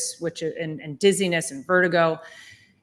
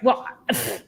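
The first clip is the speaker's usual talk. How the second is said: scoffing; 3 semitones lower, 5 dB louder than usual. Retold or imitated. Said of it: "and he's scoffing at".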